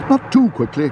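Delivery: high-pitched call to the driver. A narrator's reading. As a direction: call out a quick check. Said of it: "called Missus Brown".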